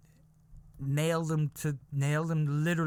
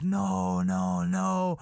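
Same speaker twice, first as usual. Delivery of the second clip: higher, long imitated no's; shocked women; 5 semitones higher, 3 dB louder, much slower than usual. Women react to uncle's story, mock-shocked chorus. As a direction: mimic a roomful of aghast aunties. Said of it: "all the women were like".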